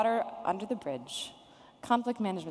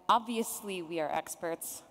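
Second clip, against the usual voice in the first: sarcastic. Real, not acted. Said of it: "I'm being very sarcastic".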